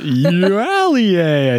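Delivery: Eulalia slowly drawn out; childhood mispronunciation. Shown as a demonstration. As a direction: say Eulalia slow as Ay-lee-yay-a. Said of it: "I think is how I said it".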